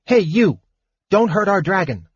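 put-on high-pitched little boy's protest; high childish yell. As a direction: pipe up as an indignant small boy. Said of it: "one little boy yelled".

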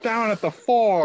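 loud, slow monotone announcer; emotionless robot. Retold or imitated. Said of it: "in a monotone voice".

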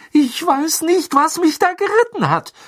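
high, loud panting despair; gasping. Acted. Ron gasping his confession to Harry and Ginny. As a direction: gasp the words out. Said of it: "keuchte Ron".

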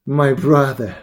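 smiling and emphatic; smiling reply. A narrator's reading. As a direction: say it aloud with a smile to a brother.

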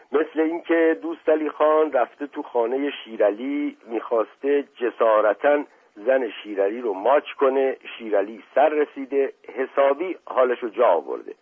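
broken phrases. Acted. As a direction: tell it urgently in broken pieces.

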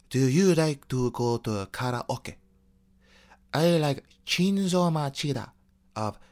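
put-on slow, polite Japanese accent; lightly put-on Japanese English. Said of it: "And my Japanese is like".

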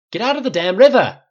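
high, loud bellowed order; furious shout. A narrator's reading. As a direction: roar the order angrily. Flynn yells orders in the river.

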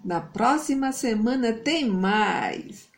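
put-on cheerful host signing off to kids; kids show host. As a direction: wrap up warmly like a TV host. Host wraps up for children.

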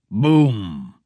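booming impact sound; monster strikes the little door. Acted. Pounding on the door.

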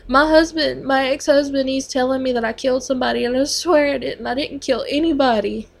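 distraught pleading. Retold or imitated. Patient's distraught words retold.

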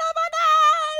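high, loud fangirl mock scream; retold scream. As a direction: imitate screaming back in excitement. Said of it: "and then we screamed".

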